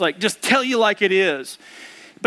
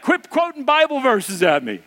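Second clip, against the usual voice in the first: higher, mildly exasperated imitation of wife; mock annoyed wife; 4 semitones higher than usual. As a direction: lightly act out her irritation. Wife snaps back through the door.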